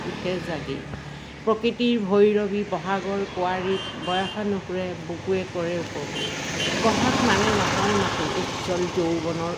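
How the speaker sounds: verse read in measured phrases; poem recitation. Acted. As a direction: recite to an audience, line by line. Recites own spring poem.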